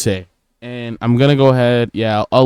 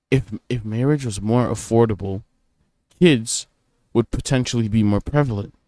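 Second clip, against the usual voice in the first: calm restatement. Real, not acted. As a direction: bring it down and land it calmly. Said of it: "think about that point".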